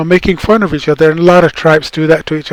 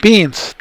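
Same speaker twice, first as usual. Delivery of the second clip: Beans said alone, a touch higher; stressed plural; 4 semitones higher than usual. Shown as a demonstration. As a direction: show the S ending of Beans. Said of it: "you say beans".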